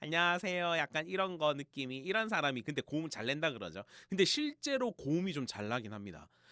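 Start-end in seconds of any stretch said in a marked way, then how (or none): 0.0-2.6 thin, whiny, overdone nasal tone. Exaggerating how the voice used to sound, exaggerated nasal whiny voice. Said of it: "예전엔 좀 앵앵거리는 느낌이 많았어요... 과하게 표현을 하는 거죠".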